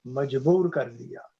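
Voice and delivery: measured Urdu couplet reading; ghazal recitation. Acted. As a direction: recite the verse with drawn words and pauses. (शायरी पढ़ने का अंदाज़)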